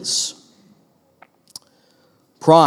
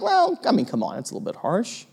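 mock protest; 6 semitones higher, 8 dB quieter than usual. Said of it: "I was like".

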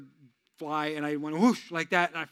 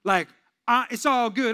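a louder mock swagger; lightly voiced bragging tough guy; 4 semitones higher, 8 dB louder than usual. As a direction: brag like a wannabe street guy. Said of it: "some people that be like".

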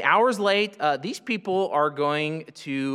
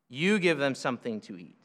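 "You" hit as if poking a chest; firm, low "You give them"; a hint of finger-pointing on "You"; emphatic You; 4 semitones lower, 3 dB quieter than usual. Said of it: "pointing his finger in their chest".

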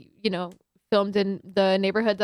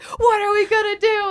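high, loud mock-panicked plea; retold rallying speech; 13 semitones higher, 5 dB louder than usual. Film-maker working up a bar crowd, retold yelled speech. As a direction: cry out to the crowd in hammed-up alarm. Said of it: "giving them this, like, speech".

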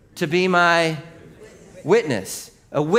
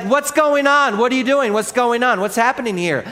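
much higher and louder bewildered shouting; city's alarmed shout; 8 semitones higher, 6 dB louder than usual. Retold or imitated. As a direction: yell like a startled crowd outside. Whole city in uproar.

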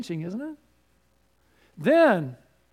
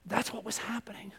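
unvoiced whisper; 3 semitones higher, 9 dB quieter than usual. Real, not acted. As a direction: breathe it as a secret. Whispered aside.

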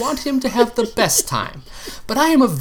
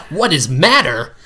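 slower, louder, irritated repeat; angrier; 5 dB louder than usual. Acted. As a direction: throw his words back, annoyed. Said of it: "I repeated, only angrier".

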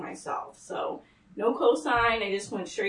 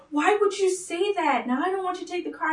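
mocking mom; 8 semitones higher than usual. Mom's retorted quote.

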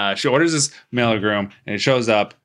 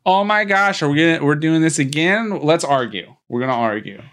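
exasperated; 5 semitones higher than usual. Retold or imitated. Marnie exasperated at family fight.

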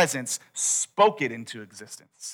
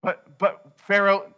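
slow, halting, higher-pitched objection; stammered protest; 5 semitones higher, slower than usual. Acted. Moses making excuses to God, stammered protest.

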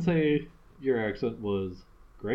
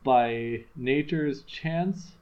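measured recitation of a sonnet; poem reading. Acted. Reading a Shakespeare sonnet to a friend, measured recitation. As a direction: read the sonnet out with care.

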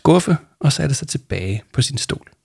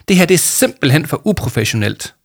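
tight and indignant, pitched up; tense; 6 semitones higher than usual. Acted. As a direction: scorn it tightly. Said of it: "sagde Jama stramt".

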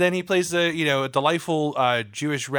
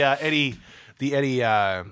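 put-on Cockney accent. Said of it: "That was a wild Cockney accent".

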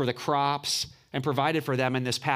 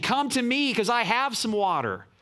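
raised, lightly mocking misquote; wrong version, lightly mocked; 6 semitones higher than usual. Preacher mocking a misreading of Jesus, raised and light. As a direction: toss off the wrong idea, a bit higher. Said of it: "Jesus is not saying".

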